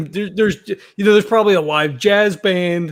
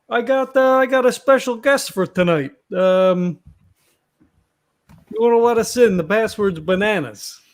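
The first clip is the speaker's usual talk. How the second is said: a touch higher, casual doorway patter; lightly voiced Vinny; 4 semitones higher than usual. Vinny asks the doorman to let a guest in, lightly voiced. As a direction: lightly play a regular talking his way in.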